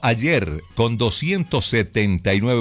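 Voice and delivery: high, drawn-out news headline; headline attention call. Real, not acted. Radio newsreader alerting listeners to news from France, headline attention call.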